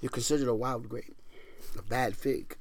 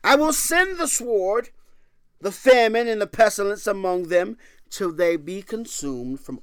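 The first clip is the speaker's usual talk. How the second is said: thundering scripture; 7 semitones higher, 5 dB louder than usual. Acted. Preacher to congregation, thundering scripture. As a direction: boom out the prophet's threat.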